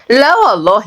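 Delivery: sarcastic, animated Saidi telling-off; lightly voiced indignant sister; scolding big sister. Sister lectures brother about fighting, scolding.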